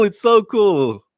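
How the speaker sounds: drawn out slowly, relishing each word; slow, relishing echo. Real, not acted. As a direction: linger on it as if tasting it. Repeating praise, savouring it.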